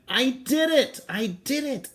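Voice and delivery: high, loud triumphant cry; proud shout. Acted. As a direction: shout it to the crowd like a proud kid. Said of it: "I shout to the crowd".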